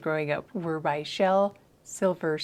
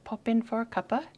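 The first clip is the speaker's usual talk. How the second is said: higher, lilting mock British; British accent; 4 semitones higher than usual. Shown as a demonstration. Practising an invitation to the author, higher British accent. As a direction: put on a British accent, rising at the ends. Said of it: "British accent".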